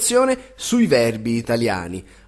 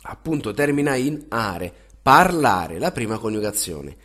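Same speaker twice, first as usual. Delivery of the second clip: clear, measured teacher drill, each form said then repeated; conjugation drill; much slower than usual. Acted. Drilling verb conjugations aloud.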